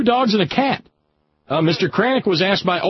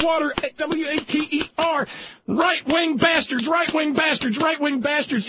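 emphatic mock spelling; 8 semitones higher than usual. A host drilling his listeners with water spelling, rising and insistent. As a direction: hammer the words like a lesson. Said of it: "metaphorically speaking, I want to pump that water onto their hand".

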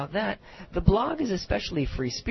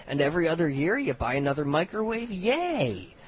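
mock-delighted salesman with a higher, swooping "Yay"; sarcastic; 4 semitones higher than usual. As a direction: cheer it on sarcastically. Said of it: "and I'm being sarcastic".

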